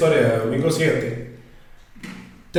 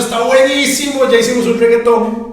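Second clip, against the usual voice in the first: witch voice; 9 semitones higher, 4 dB louder than usual. Acted. Witches answer in story.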